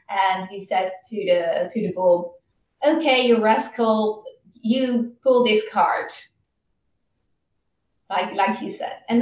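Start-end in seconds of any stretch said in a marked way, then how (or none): 2.8-6.3 a slow, louder scolding order. Acted. Brahmin ordering his stubborn bull to pull, slow and scolding. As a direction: bark the command at a lazy bull.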